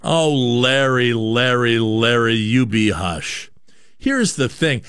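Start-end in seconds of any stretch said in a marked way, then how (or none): 0.0-3.5 louder, slow drawn-out tut-tut at Larry; mock scolding. Host scolding rival talk show host Larry after his clip, slow loud mock chiding. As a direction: hush him like a naughty child, stretched and loud.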